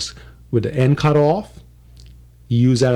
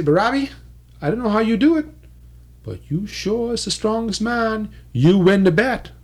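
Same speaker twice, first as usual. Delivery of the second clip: higher put-on whale voice conceding; 6 semitones higher than usual. Whale admitting to Barabi he won, higher voice. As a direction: grudgingly admit defeat as the whale.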